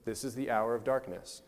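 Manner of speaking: even, unruffled statement; calm. Retold or imitated. Preacher quoting Christ facing darkness, calm. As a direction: say it steadily, without any alarm. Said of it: "Christ just calmly looks at it and says".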